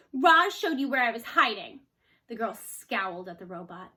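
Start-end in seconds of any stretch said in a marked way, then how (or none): 0.1-1.8 whiny. A narrator's reading. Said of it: "Jaya whined".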